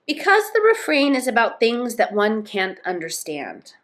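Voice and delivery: story narration. A narrator's reading. Tootiki explaining her song to Moomin Troll, story narration. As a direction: read it as a character's explanation.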